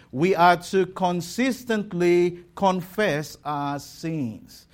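"consistently" set out firmly as the key word; stress on CONSISTENTLY. Real, not acted. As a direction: put the emphasis on "consistently". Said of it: "I put the emphasis on the word consistently".

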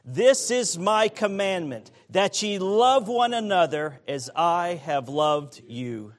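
congregation reading aloud together; many voices in unison. Real, not acted. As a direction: read scripture aloud in unison. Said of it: "Let's read it aloud together".

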